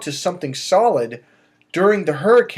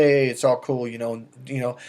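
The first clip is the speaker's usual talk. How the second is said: low, unruffled reassurance; calm guy; 5 semitones lower, 3 dB quieter than usual. Acted. Coach playing a calm guy at the club facing yelling, laid-back. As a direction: play it cool, trailing off softer. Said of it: "if you're a calm guy".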